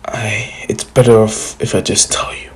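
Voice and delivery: soft secretive whisper. Retold or imitated. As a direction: confide under your breath. Naruto confides quietly.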